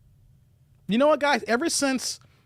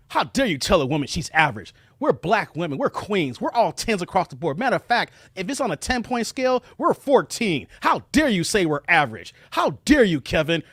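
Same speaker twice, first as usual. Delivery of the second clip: gruff voice. Acted. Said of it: "giving the gruff".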